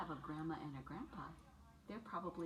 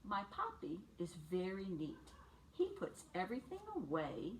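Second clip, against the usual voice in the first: lively picture-book read for little ones; bright storybook read-aloud for preschoolers; reading to children. A narrator's reading. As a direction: read it like story time on the rug.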